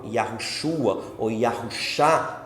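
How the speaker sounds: "Yahushua" then shortened "Yahushá", slow; two pronunciations. Shown as a demonstration. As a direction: give both forms, "Yahushua" and "Yahushá". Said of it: "as duas formas de pronúncia". (duas pronúncias, "Yahushua" e "Yahushá")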